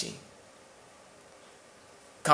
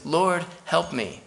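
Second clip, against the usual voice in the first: slow, raised plea to the Lord; slow pleading prayer; 4 semitones higher, slower than usual. Retold or imitated. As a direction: beg slowly, voice lifted. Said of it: "and says".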